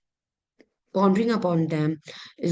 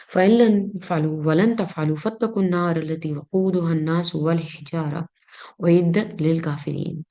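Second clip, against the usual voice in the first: measured Arabic verse recitation; Quran recitation; much faster than usual. Acted. Teacher reciting a Quran example to students, measured recitation.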